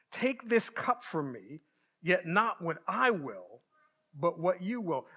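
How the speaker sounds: scripture reading. Acted. Reads the Gethsemane passage aloud.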